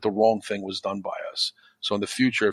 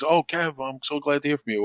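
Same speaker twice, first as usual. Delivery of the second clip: put-on imagined happy kid, higher voice; mock delighted phone hello, pitched up; glad greeting; 5 semitones higher than usual. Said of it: "what's his mood gonna be".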